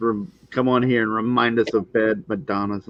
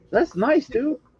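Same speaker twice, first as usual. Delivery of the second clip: taken aback, surprised, very high-pitched; 13 semitones higher than usual. Praising a drawing shown on screen, sounding surprised. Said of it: "you sound surprised".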